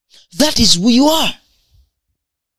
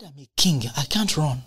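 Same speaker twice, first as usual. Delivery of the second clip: quoting the prince; 5 semitones lower, 9 dB quieter than usual. Retold or imitated. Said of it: "He said".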